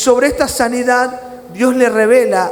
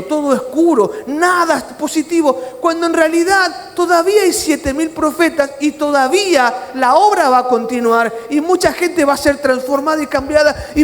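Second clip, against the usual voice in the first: God's fervent reply; 5 semitones higher than usual. Retold or imitated. God answers Elías, rising fervor.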